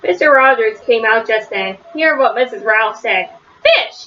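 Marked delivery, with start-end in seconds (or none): 3.6-4.0 very high, short mock shout; shouted exclamation. A narrator's reading. Mister Rogers hearing about his fish, high shouted exclamation. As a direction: yelp it high, as a storybook shout. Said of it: "he shouted".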